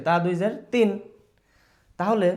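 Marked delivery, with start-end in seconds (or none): 0.1-0.9 তিন said as "tin" ending in n; tanween demo. Shown as a demonstration. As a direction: show তিন with its final n. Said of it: "উচ্চারণ কি হচ্ছে?". (তিন শেষে ন দিয়ে)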